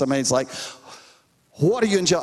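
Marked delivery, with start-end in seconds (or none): 1.6-2.2 higher, exasperated retold question; frustrated stepdad. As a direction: imitate a father's frustration over the phone. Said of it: "you could hear the frustration in his voice".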